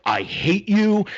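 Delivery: very high, slow, loud wail; imitating a crying daughter's tantrum; teen tantrum. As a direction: wail it like a furious teenager storming off. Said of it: "storming off, like, crying".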